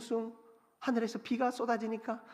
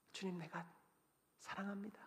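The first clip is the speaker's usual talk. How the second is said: barely voiced, much softer confession; hushed confession; 2 semitones lower, 17 dB quieter than usual. Peter confessing love to the Lord, hushed and much softer. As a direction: confess it almost under the breath.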